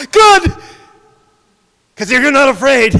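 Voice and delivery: loud, high creature voice; monster voice. Acted. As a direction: sneer it at the boy. Creature answers boy.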